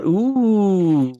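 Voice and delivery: long drawn-out ooh; scandalized ooh. Real, not acted. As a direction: let a teasing ooh stretch out and fall. Reacting to paid-review accusation.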